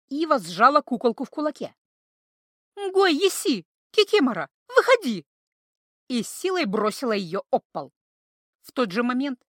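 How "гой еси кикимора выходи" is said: loud, high ritual summons; chanted loud summoning; incantation call. A narrator's reading. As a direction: command the spirit out. Summoning the spirit.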